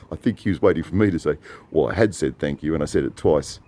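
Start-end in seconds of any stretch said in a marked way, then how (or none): none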